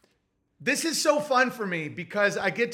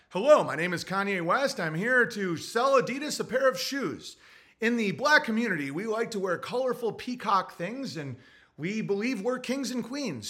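mock courteous spokesman; polite sales pitch, P=A; 2 semitones higher than usual. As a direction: present it like a proper business pitch. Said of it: "you're talking like this, right?".

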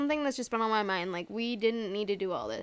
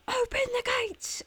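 mock gatekeeper call. Gates person passing on the host's order, high-pitched mock call. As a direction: relay the order in a high put-on voice. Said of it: "And they'll be like".

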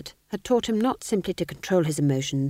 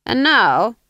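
higher, slow silky probing; sly Duke; 6 semitones higher, 10 dB louder than usual. Acted. Duke slyly probing the fool, slow and silky. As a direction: coax it out of him slowly.

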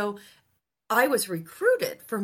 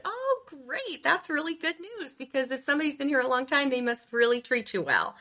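much higher, bubbly and quick; chirpy delight; 6 semitones higher than usual. Retold or imitated. Intern gushing to a woman at lunch, much higher and bubbly. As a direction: gush brightly at the good news.

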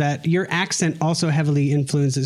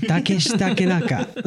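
"Takeshi Takenaka" in a Japanese accent, pitched up; 4 semitones higher than usual. Shown as a demonstration. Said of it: "you'd say it with a different, like, accent".

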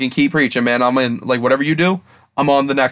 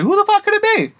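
frantic puzzling. Retold or imitated. Acted confusion watching episode.

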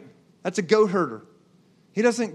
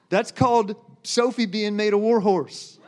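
laughing shout. Real, not acted. Preacher exclaims, laughing.

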